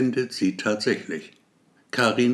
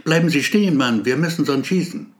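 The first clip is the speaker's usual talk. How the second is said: loud, higher call to stop; police yell after runner before shooting; shouting; 3 semitones higher, 4 dB louder, faster than usual. Acted. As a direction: yell a warning to halt. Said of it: "ihre Schreie".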